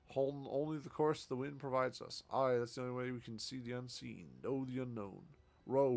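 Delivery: rousing pirate captain, chanting row row; hearty sea captain. Acted. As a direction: bold old sailor rallying the crew. Voices the ship captain's lines.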